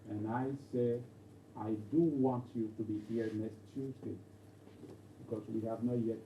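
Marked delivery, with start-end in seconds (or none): 1.6-4.2 "do" lifted and leaned on in a measured sentence; stress on DO. Shown as a demonstration. Teacher showing the class an insistent "do", stress on DO. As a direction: put the weight on "do". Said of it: "If I put do before the want".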